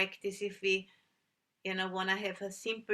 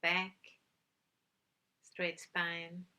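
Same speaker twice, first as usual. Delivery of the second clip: calm, unhurried meditation guidance with long pauses; measured instructions in short, spaced phrases; guided meditation; 3 dB quieter than usual. Real, not acted. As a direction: guide listeners gently into stillness, leaving long silences.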